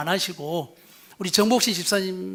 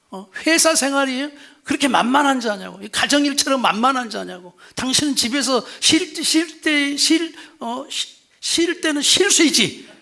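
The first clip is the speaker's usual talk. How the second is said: defensive husband; 5 semitones higher, 3 dB louder than usual. Retold or imitated. Husband's angry retort acted.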